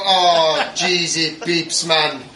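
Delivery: laughing through the words; can't hold back the laughter. Real, not acted. Laughing at the clip.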